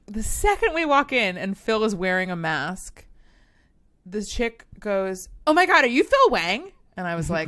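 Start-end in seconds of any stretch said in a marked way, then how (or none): 5.5-6.7 high, loud gush of recognition; starstruck fan. Retold or imitated. Hostess recognizing a famous customer, starstruck. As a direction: gasp it out like a thrilled fan. Acting out an excited fan's recognition.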